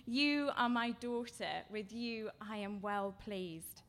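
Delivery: slow, deliberate blessing for a daughter; unhurried declaration of a father's love; slow voice from heaven. Retold or imitated. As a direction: let each word land slowly as God's voice. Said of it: "but a voice from heaven says".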